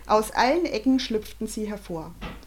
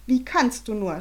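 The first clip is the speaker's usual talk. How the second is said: louder scolding; scolding mother; 3 semitones higher, 4 dB louder than usual. Acted. Mother scolds her husband, louder. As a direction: reproach the husband. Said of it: "schimpfte Arabella Vogel".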